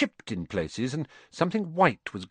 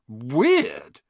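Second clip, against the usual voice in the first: one drawn-out, rising word of wonder; amazed; 5 dB louder than usual. Acted. Ron marvelling at Muggle photos, amazed. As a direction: marvel at something utterly strange. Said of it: "Ron sounded amazed".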